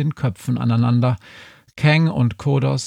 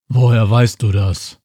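louder, strange grunting alien voice; grunting Kodos; 5 dB louder than usual. A narrator's reading. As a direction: grunt the question like a suspicious alien. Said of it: "grunzte Kodos". (grunzende Alienstimme)

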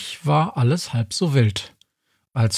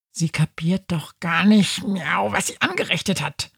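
whispered, grumbling cat voice; grumbling under breath; 5 semitones higher than usual. Acted. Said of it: "schimpft Schrödinger vor sich hin".

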